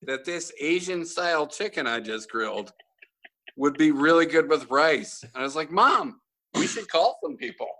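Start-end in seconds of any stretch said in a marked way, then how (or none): 0.0-5.2 sarcastic disbelief. Retold or imitated. Sarcastic reply to mom. 5.7-7.7 higher, sarcastic call to action; sarcastic, mock-urgent announcement; mock urgency.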